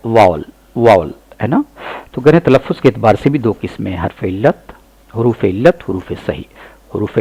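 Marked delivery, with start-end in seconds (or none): 0.1-1.1 वावल twice as "vaa-val", short second syllable; correct pronunciation repeated. Shown as a demonstration. Teacher drilling students on वावल, the correct vowel. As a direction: repeat वावल clearly, "val" not "vel". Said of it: "दुरुस्त तलफ़ुज़ क्या है".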